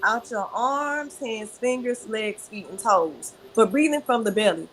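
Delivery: unhurried breathing instructions; guided breathing. Shown as a demonstration. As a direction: lead them through the breath gently. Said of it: "So show me how you breathe from the belly".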